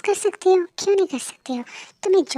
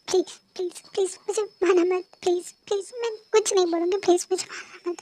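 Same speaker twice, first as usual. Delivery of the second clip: begging; 3 semitones higher than usual. Acted. Girl begs stranger not to kill.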